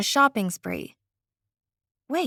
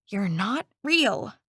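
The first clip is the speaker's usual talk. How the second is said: sputtering; 4 semitones lower, 4 dB quieter, slower than usual. Acted. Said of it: "I sputtered".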